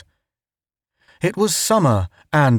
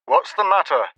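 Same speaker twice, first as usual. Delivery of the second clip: frantic demand; 7 semitones higher than usual. A narrator's reading. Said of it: "Ned's voice demanded frantically".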